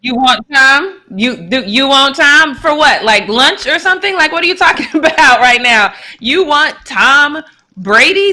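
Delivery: high, disbelieving questions; incredulous. Real, not acted. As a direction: draw out the name in scandalized disbelief. Scoffs at player's boast after clip.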